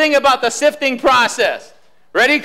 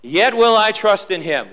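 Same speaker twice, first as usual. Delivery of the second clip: preached scripture recitation; 2 semitones lower than usual. Shown as a demonstration. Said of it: "One more time".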